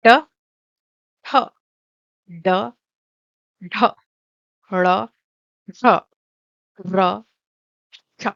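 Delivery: "इ, ई, च, छ, ज, झ, य, श" spaced out one by one for the class to repeat; clear letter drill. Shown as a demonstration. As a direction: pause after each letter so pupils can echo it. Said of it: "all of you to say the letters along with me".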